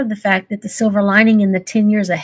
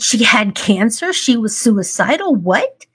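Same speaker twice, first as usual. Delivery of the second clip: slower, each line rising like a disbelieving question; incredulous questions; slower than usual. Retold or imitated. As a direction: repeat it as if you can't believe they don't know. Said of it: "And I said".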